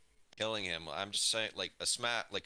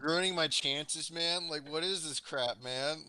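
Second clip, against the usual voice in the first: higher-pitched indignant whine; overheard complaint; 4 semitones higher than usual. Acted. Player's character complains about ruined chances, indignant protest. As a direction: protest as if heard down the hall. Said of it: "And then you hear".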